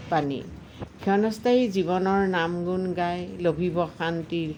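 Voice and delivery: deliberate verse reading with phrase pauses; poem recitation. Acted. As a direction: recite it as your own poem.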